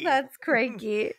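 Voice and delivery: slow echo of a bad Russian accent; mimicked botched accent. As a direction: mimic the silly accent, drawn out. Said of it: "crikey Russian accent".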